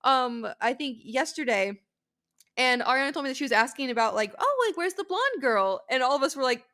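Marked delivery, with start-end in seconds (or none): 4.4-5.8 customer voice. Retold or imitated. Customer asking, retold.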